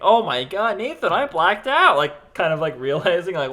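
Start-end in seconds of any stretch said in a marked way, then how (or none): 0.0-2.0 retold alarm. Retold panic to Nathan.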